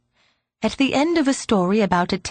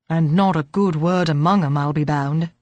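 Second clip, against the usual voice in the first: put-on old man voice; 4 semitones lower than usual.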